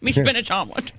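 lightly voiced cartoon sailor; Popeye. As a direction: talk out of the side of your mouth.

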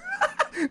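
shrill burst of laughter; high-pitched giggle fit; high squealing laugh. Real, not acted. Cracking up at the scream.

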